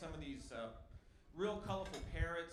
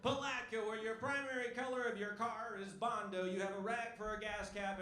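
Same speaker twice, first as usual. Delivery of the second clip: mock slogan; 4 semitones higher than usual. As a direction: sell the town like a cheesy ad.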